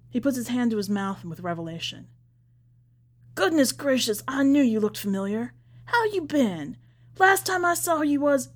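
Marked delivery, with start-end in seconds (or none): 3.3-8.5 higher and louder, delighted surprise; bursting into delighted recognition; excited recognition. A narrator's reading. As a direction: greet him like a long-lost nephew. Preacher recognizes Raven's boy.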